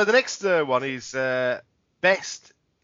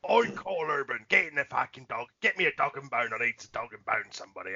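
hammed-up mock Cockney rhyming slang; mocking an actor's terrible Cockney; really bad Cockney accent; 3 semitones lower, 3 dB quieter than usual. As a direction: fake Cockney, sinking lower at the end. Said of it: "really, really bad accent".

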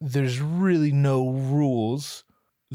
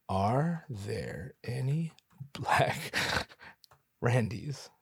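slow quiet search; 5 dB quieter, much slower than usual. Real, not acted. Typing a search aloud.

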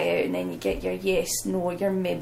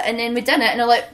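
ordinary talk

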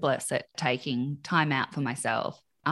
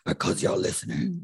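mock scary mum. Mum answering scared kids, mock scolding. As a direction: drop from child squeak to a put-on parent's retort. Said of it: "Your voice is so big".

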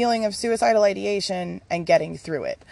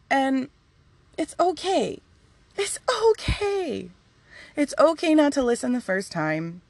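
reassuring spirit; 4 semitones higher than usual. Acted. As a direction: soothe a child who messed up.

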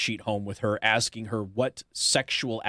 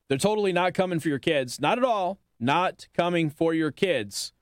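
sarcastic; 4 semitones higher than usual. Real, not acted. Mocking claim about kids.

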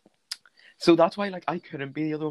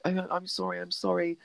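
small, higher, softer voice; soft little "sorry" in a raised pitch; retold meek apology; 4 semitones higher, 6 dB quieter than usual. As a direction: imitate someone apologising meekly. Retold flustered apology at party.

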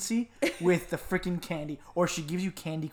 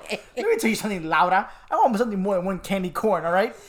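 louder, hammed-up demand with a laugh; mock indignant; 2 semitones higher, 6 dB louder than usual. Telling off the stingy neighbor over candy corn, mock indignant. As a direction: tell her off in playful outrage.

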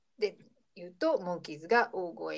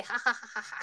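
mock "ha ha ha" laugh, higher; imitated open-mouthed laugh; 4 semitones higher than usual. Retelling Peter laughing at his own joke, imitated hearty laugh. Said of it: "大口を開けて、".

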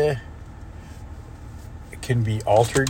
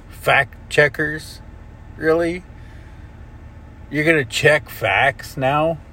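slow, higher, mocking disbelief; sarcastic disbelief; 5 semitones higher, slower than usual. Ranting at Zuckerberg's fact checkers, slow sarcastic disbelief. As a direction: drag out the sarcasm, pitched up.

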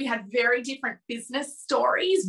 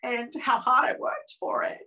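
real emotion; 4 semitones higher than usual. Real, not acted. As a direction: voice starting to catch, understated. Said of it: "I'm getting quite emotional".

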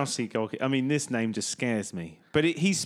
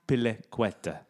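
Spanish accent; 4 semitones lower, 3 dB quieter than usual. Shown as a demonstration. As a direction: lower Spanish Azpilicueta, ath-pili-KWET-a. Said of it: "He's Spanish, don't forget".

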